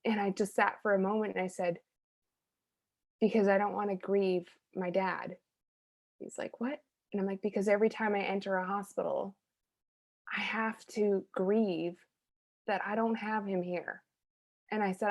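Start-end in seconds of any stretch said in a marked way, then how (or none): 3.2-14.0 soft, halting admission of grief; quietly recounted heartfelt admission; retold quiet confession. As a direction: confide it softly, with pauses.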